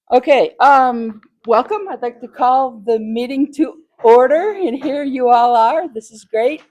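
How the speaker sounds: put-on like a mom rounding up the kids. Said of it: "I'm gonna use my mom voice".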